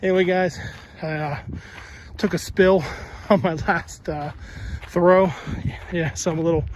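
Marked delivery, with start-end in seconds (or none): 0.0-5.3 winded after a fall; out of breath. Real, not acted. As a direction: talk while catching your breath. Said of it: "winded and out of breath".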